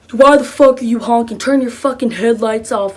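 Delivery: mock irate demand; angry confrontation. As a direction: imitate a man angrily confronting a car. Crackhead confronts them about honking.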